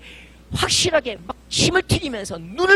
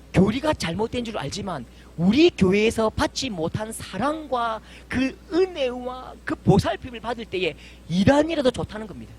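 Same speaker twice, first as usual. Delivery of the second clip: normal talking voice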